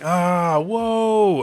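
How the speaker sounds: high, loud startled "Ah, whoa"; acted yell. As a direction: yell it as you fall. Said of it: "Gerd yelling".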